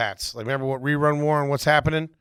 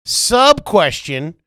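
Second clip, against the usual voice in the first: announcer aside; 5 semitones higher, 9 dB louder, much slower than usual. Pretend. Announcing game segment.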